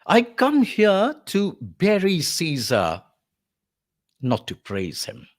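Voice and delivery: Mark Antony orating. Acted. Lecturer as Mark Antony addressing the mourners, slow oration. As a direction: declaim slowly, then drop for the denial. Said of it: "begins Mark Antony".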